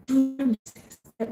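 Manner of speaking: imitating a sweet southern speaker. Melissa quoting scripture to the white tees, sweet voice. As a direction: say it sweetly, as if gently reciting scripture. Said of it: "with her sweet voice".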